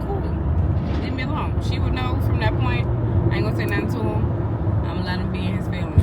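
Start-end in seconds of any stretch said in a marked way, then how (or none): 0.1-1.6 high sulky cool, leave me alone; high mocking teen brush-off; mock sulky son. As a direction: play the moody teen brushing people off. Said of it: "you don't wanna talk to Logan".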